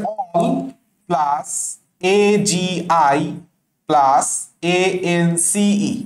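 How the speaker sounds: "all plus এ জি আই plus এ এন সি ই" in separate chunks; "all plus এ জি আই plus এ এন সি ই" dictated chunk by chunk; broken-up spelling. Shown as a demonstration. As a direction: spell out "all", "এ জি আই", "এ এন সি ই" piece by piece, with pauses. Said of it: "এই জিনিসটাকে এইভাবে".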